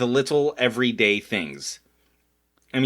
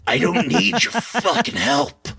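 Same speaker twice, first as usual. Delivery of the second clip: mock angry snap; 5 semitones higher than usual. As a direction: spit it out like a grumpy brat. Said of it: "I get it to".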